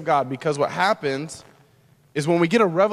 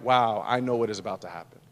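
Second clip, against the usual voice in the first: low, hushed, sober realization; quiet, weighty inner voice of dread; humanity breaking; 7 semitones lower, 5 dB quieter than usual. Acted. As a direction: drop low and soft, as if facing what is coming. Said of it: "this breaking of his humanity".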